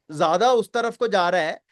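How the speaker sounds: ordinary talk, nothing marked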